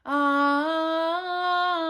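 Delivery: tongue pulled back, dark throaty ah; swallowed dark vowels. Shown as a demonstration. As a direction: sing ah with the tongue retracted. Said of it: "pulling your tongue back into your mouth to sing like this".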